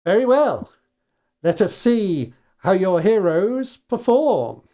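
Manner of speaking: a hint of a grand goblin host. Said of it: "Grinchard the goblin says".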